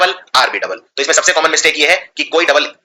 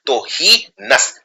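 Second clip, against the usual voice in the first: spelling-out pronunciation; much slower than usual. Shown as a demonstration. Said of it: "हीनियस की spelling है एच ई आई और फिर लगता है नस".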